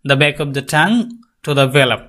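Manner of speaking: very slow, careful English; slow classroom English; slow explanation. Shown as a demonstration. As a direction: spell it out word by word. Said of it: "ভেলার sound".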